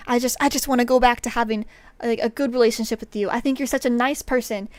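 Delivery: imitating a pleading apology; mock rushed apology. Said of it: "this guy's like".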